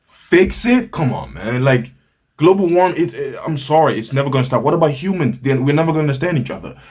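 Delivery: high, loud incredulous scoff; mock incredulous date. Date scoffing at his hope, high loud mock disbelief. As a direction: play her disbelief big and shrill-high.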